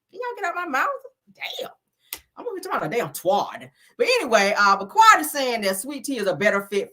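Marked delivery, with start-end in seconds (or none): 0.1-1.7 whispered plea to the spirits; hushed, pleading with the spirits; mock whisper. Whispering to the spirits to get out of her mouth.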